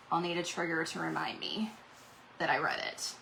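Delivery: hushed under the breath; whispered aside. Real, not acted. Whispered aside to viewers about her sleeping medicine. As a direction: drop to a whisper.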